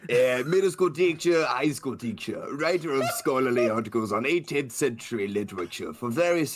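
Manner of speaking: a lightly voiced Hugo, a bit like Husk but Italian; a hint of Italian accent on Hugo; the speaker's Hugo voice. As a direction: read the teacher's introduction as a mild Italian-tinged Hugo. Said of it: "give us your interpretation of Hugo".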